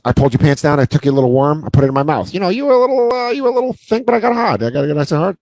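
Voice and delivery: lightly put-on buddy patter that rises as it runs on; Vince Vaughn. Woman recounts the night in Vince Vaughn's manner, rising midway. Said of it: "That's how she talks".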